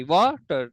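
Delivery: वाटर in two beats, वा then टर; broken into syllables. Shown as a demonstration. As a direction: break वाटर between वा and टर. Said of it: "दो break आ गई ना". (वाटर को वा और टर में तोड़कर)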